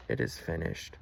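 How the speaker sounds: low, soft imitation of last words; retold dying words. Jesus to the dreamer as he dies, low hushed retelling. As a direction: drop well down in pitch and volume. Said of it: "looked down at me and said".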